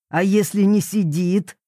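mildly sarcastic question. A narrator's reading. Jealous papa questions his daughter, mildly sarcastic. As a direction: ask with a touch of jealous sarcasm. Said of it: "саркастически спросил ревнивец".

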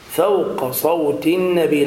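فوق with a light fa before heavy qaf, drawn out; correct fawqa. Shown as a demonstration. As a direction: recite فوق slowly, keeping ف thin. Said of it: "لا تقل فوق".

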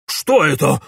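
shriek. Acted. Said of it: "взвизгнул Ипполит".

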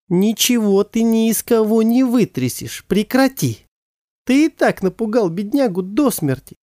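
high, firm mother's voice; defiant mother. Acted. Mother to father, defending their son. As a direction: stand up to him for the boy.

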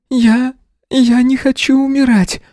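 put-on frightened girl. A narrator's reading. Wounded girl afraid.

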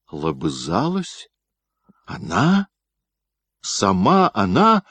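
stunned, slow and strained; in a voice not his own. Acted. Gryaznoy hears his wife kissed another, voice breaking. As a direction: shaken to the core. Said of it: "закричал не своим голосом Грязной".

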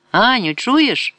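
high drawn-out call across the shop. Acted. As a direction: call out to Hanya far across the store. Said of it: "гукнуло дівча через весь магазин". (гукає через весь магазин)

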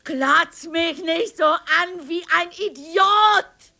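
slow, high, bitter rebuke; furious hurt reproach; angry outburst. Acted. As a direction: snap at him for gawking. Scolding husband for staring.

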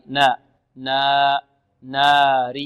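slow نا with a straight long "aa"; drawn-out, pure "naa" in نار; open alif. Shown as a demonstration. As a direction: stretch نار open without tilting to e. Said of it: "لا، في نار".

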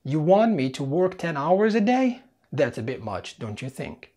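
mock complaining worker. Shown as a demonstration. Teacher voices a worker objecting to long hours, mock indignant. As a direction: play an annoyed employee pushing back. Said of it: "مثال".

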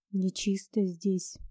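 low, slow ominous whisper; sinister whisper. A narrator's reading. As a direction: whisper it like a dark secret. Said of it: "произнёс он зловещим шёпотом".

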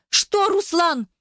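high, slow, cracking plea; voice breaking. Acted. Eva's voice breaks pleading with Ruslan, cracking. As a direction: let the voice crack on his name. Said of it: "Голос её вдруг сорвался".

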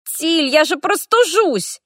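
гораздо выше, медленно, возмущённо; возопи мокрый и обиженный; вопль. A narrator's reading. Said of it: "возопил". (мокрый мальчишка вопит на Тильду)

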